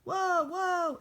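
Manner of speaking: alarmed cry of whoa; startled yelp. Acted. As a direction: yelp it, backing away fast. Startled by the bear.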